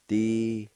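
"Di-goog-to-te" in long, separate syllables. Shown as a demonstration. Teacher showing learners word number five, one syllable at a time. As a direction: pause after each sound, G closing "goog". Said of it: "pronounce the G sound with the G U like this".

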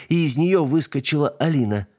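ordinary delivery, nothing marked

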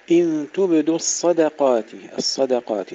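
"الصدقات" with thin د between heavy ص and ق; light dal. Shown as a demonstration. Teacher models the verse word for pupils, light dal. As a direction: keep the د light inside "الصدقات". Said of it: "ترقيق الدال بين الصاد والقاف المفخمين".

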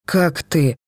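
rasped, worn-out croak; hoarse rasp of exhaustion. A narrator's reading. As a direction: croak it out, barely any voice. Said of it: "прохрипел я".

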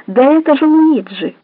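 вдруг громче и выше, с облегчением; выкрикни, узнав друга; радостное узнавание. Acted. Узнал своего в перестрелке. (радостный возглас)

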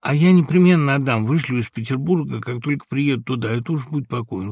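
begging a friend for a loan; eager pleading. A narrator's reading. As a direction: press him eagerly. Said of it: "видя по лицу Самойленко".

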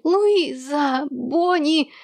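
summoning from the bedroom; calling out. A narrator's reading. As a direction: shout the names upstairs. Hanni calling from upstairs.

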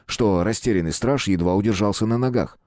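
plain reading voice

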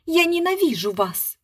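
high, theatrical cry of hate; melodramatic declaiming. A narrator's reading. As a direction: overplay the hatred on stage. Actress declaims.

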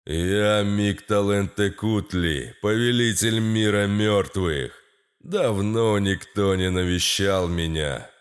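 low, slow booming deity; god voice. Acted. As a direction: speak as lord of the dead. Lord of dead speaks.

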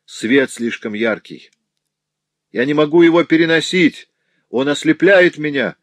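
building to a high, loud, rushed cry; pained outcry. A narrator's reading. Notary blinded by a lamp, crying out in pain. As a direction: protest in agony at the light. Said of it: "резко закричал от боли".

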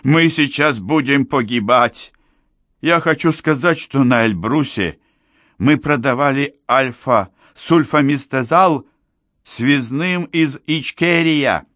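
high-voiced old man confessing; old foreigner Helmut, urgent. A narrator's reading.

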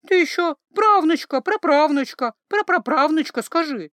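loud, high flustered retort; embarrassed grumble. A narrator's reading. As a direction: snap back, flustered and loud. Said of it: "смущённо буркнула травница".

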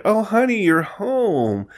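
hammed-up surprised actress. Retelling the actress greeting her husband at the door, hammed-up. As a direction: play it caught-out and fake casual. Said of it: "and she's like".

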